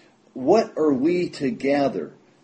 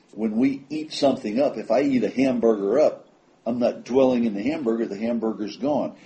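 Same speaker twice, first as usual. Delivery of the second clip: normal talking voice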